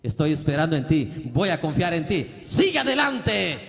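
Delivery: loud, high, ringing encouragement; voicing God to a repentant son, loud and uplifting; God's loving call. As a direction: lift him up with a booming fatherly voice. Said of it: "¿Sabe qué dice Dios?".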